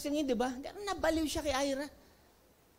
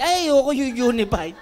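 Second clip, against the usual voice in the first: laughing refusal; 8 dB louder than usual. Retold or imitated. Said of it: "Sabi ko".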